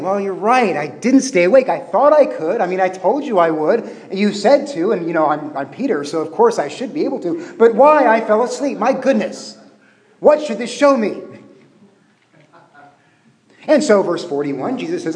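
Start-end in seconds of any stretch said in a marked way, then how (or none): 0.0-11.2 lightly voiced flustered Peter, higher; a hint of Peter stammering excuses; Peter's flustered excuse.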